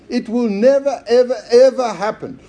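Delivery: NEVER, EVER, EVER punched high and loud; emphatic negative. Shown as a demonstration. Preacher explaining the emphatic negative, NEVER EVER EVER driven home. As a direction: hammer each of NEVER, EVER, EVER. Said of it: "It's the emphatic future negative".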